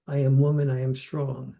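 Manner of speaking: firm, confident chant of strength; a touch of proud marching chant; proud slogan. Retold or imitated. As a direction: quote it like a proud rallying slogan. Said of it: "as I saw feminism go from".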